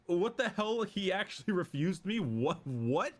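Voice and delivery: a hint of a stunned Emperor; flabbergasted. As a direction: repeat it in mild disbelief. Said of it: "flabbergasted, dumbfounded".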